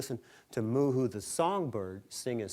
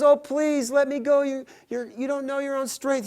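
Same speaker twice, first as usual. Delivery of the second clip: bird pleading; 14 semitones higher, 8 dB louder than usual. Acted.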